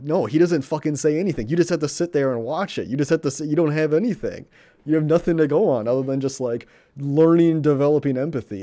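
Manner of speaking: loud, high, worked-up rave; impassioned loud rant; excited rant. Real, not acted. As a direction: pour it out loud, amazed. Rant about a silent scene.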